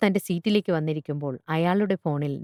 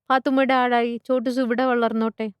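put-on high child's voice, pleading; hopeful little girl; 6 semitones higher than usual. Schoolgirl asks teacher to buy the goat, hopeful child voice. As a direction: pitch it up like a small child proposing.

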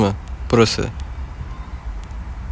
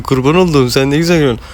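put-on baby talk; faster than usual. Cooing at smiling baby.

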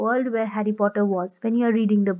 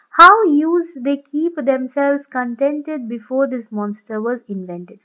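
slow poem reading; 4 dB louder, slower than usual. Shown as a demonstration. Reading poem lines aloud.

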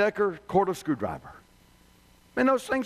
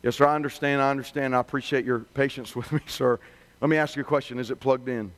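lower, patient service voice; calm customer rep; 8 semitones lower than usual. Retold or imitated. Rep walks the angry customer through the checklist, calm and lower. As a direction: keep steady and polite with a difficult caller. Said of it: "The rep calmly replies".

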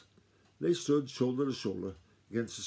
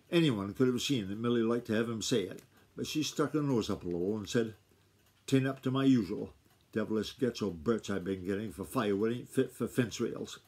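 too fast. Shown as a demonstration. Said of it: "she says I'm reading too fast".

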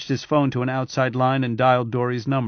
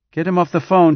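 louder, brisk impatient order; 5 semitones higher, 7 dB louder than usual. Acted. Suli to Remez, impatiently demanding the call end. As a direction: cut him short, you have no time for this. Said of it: "she said impatiently".

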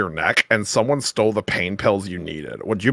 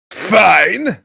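high, loud put-on voice; mock exasperated shout; 8 semitones higher, 6 dB louder than usual. Conceding in chat log argument, high mock shout. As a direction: shout it high as a huffy retort.

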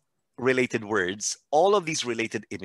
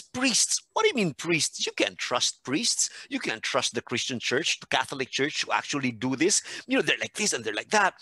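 half-hearted imitation of an angry rant; retold angry outburst; 3 semitones higher than usual. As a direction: act out an emphatic objection without really shouting. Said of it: "practically yelling at the top of his voice".

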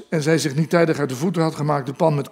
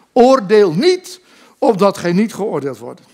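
solemn scripture quote; 3 semitones higher, 4 dB louder than usual. Retold or imitated. Quoting scripture as preacher.

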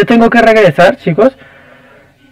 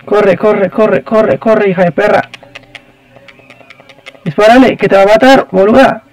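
panicked pleading to run and shoot; being chased; 2 semitones higher than usual. Real, not acted. Character chased by spider. (frenético, perseguido)

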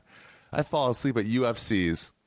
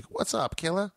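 hammed-up greeting; 12 semitones higher than usual. Impersonating Ralphie greeting.

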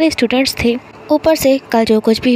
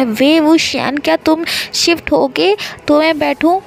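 raised, higher impatient yell at a daydreaming classmate; shouting; 5 semitones higher than usual. Acted. Classmate yelling at the daydreamer to move over, raised voice. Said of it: "जोर से चिल्लाया".

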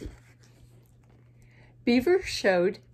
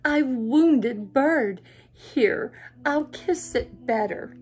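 raccoon voice; 2 semitones higher, 5 dB louder, slower than usual. Acted.

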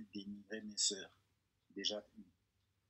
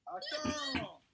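high sharp cry of Attends!; sudden shout; 4 dB louder than usual. Real, not acted. Interrupting the count with a high startled yell. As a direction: yelp it out, startled and pitched way up.

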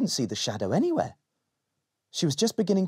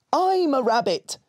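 higher, louder echoing take; shadow voice; 13 semitones higher, 4 dB louder than usual. Acted. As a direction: copy it back as the shadow. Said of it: "said the shadow".

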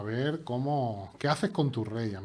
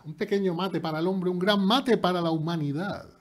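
grand announcement; 7 semitones higher, 8 dB louder than usual. Pretend. Moon landing parody line.

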